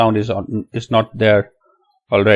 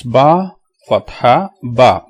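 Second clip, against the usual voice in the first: letter, sign, syllable, each set apart; spelling it out; much slower than usual. Shown as a demonstration. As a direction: spell in three beats for learners. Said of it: "let's spell it".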